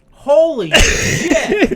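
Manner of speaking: slow, drawn-out holy shit; stunned by the heat; shocked exclamation. Real, not acted. First bite of the hot chocolate.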